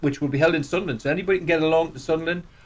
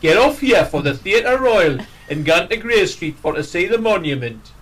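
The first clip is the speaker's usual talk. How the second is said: bus announcer voice; 2 semitones higher, 4 dB louder than usual. Retold or imitated. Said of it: "You'll get the voiceover job".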